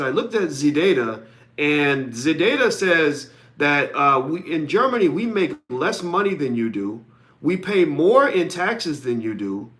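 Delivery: lightly imitated German accent, slow and deliberate. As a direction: play the German colleague citing data in a mock German accent. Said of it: "he said in the German accent".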